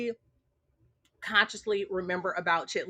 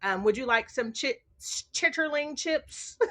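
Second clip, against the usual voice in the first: deadpan tease; slower than usual. Retold or imitated. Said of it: "I'm like".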